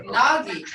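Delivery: nagi with a falling tone; tone demo. Shown as a demonstration. Teacher demonstrating the tone of nagi. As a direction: say nagi, dropping at the end. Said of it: "Listen to the tone now".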